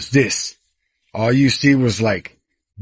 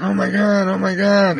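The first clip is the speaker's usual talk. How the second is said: imitated screaming; 6 semitones higher than usual. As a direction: mimic a panicked crowd in a high, held voice. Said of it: "screaming like".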